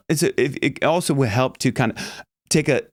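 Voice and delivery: usual speaking voice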